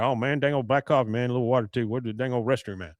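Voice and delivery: lightly voiced run-on drawling character; normal-speed take of a rambling character; Boomhauer. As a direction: imitate a rambler running the words together. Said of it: "you hear Boomhauer".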